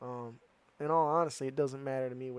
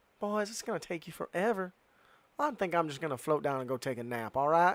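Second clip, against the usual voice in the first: mildly excited, eager, sing-song rushed chatter; 4 semitones higher, 3 dB louder than usual. Voicing Lulu as she tells the boys she will float down: voicing Lulu, a little excited. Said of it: "Lulu kinda gets a little excited. She's like".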